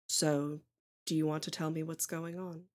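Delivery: quietly probing mother, lightly voiced; concerned mother. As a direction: ask softly, as a mother taking her child aside. GM plays the mother.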